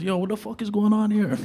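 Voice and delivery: high-pitched confused outburst; out of breath and bewildered; baffled thief. Retold or imitated. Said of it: "He goes".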